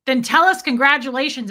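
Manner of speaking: put-on angry old husband demanding respect. Fred angrily confronting Wayne.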